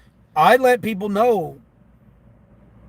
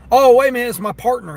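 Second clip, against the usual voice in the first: high, louder mock sudden recall; mock realization; 6 semitones higher, 6 dB louder than usual. Driver imitating the partner suddenly remembering, higher and louder. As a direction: play him suddenly remembering.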